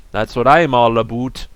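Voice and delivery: Beanie puppet voice. Pretend. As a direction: voice a goofy plush toy. Voicing Beanie puppet for BRB.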